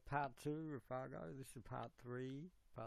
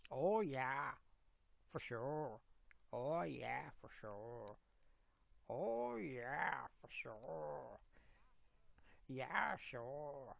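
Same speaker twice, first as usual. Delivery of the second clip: stretched Minnesota vowels with a swooping tune; practised Minnesota accent, long O's; much slower than usual. Shown as a demonstration. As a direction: do a Minnesota local agreeing. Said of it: "Minnesota accent".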